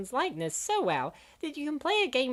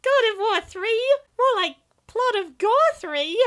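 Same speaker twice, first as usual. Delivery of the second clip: mock scoffing; 6 semitones higher, 7 dB louder, slower than usual. Mocking game title pun.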